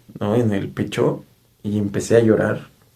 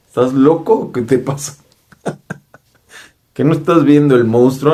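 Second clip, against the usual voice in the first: higher-pitched mock disbelief, half laughing; incredulous protest; 4 semitones higher, 3 dB louder than usual. Teller protesting to the presence to drop the weapons, incredulous. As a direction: object as if they're crazy, pitch rising.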